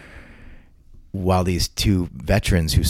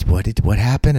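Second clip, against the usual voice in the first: mock surprise; 2 semitones higher than usual. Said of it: "They're like".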